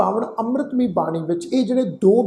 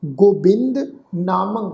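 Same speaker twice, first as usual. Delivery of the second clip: word-by-word scripture recitation; recitation demo; slower than usual. Shown as a demonstration. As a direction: recite each word apart, with pauses. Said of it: "ਇੱਕ ਵਾਰ ਫਿਰ ਤੋਂ ਸੁਣੋ ਜੀ".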